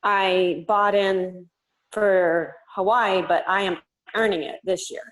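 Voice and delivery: slow, careful over speakerphone; speaking deliberately into a phone; phone speaker. Real, not acted. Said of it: "we can hear you".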